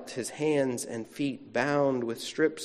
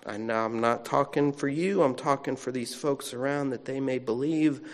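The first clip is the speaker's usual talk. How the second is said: calm centering prayer. Acted. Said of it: "hear Jesus' centering prayer".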